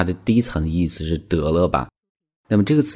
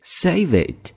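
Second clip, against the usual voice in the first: mock-annoyed boss cutting you off; playfully acted angry boss; irritated boss; 10 semitones higher, much slower than usual. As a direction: brush off the excuse, a bit fed up. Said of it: "你的老板就生气了".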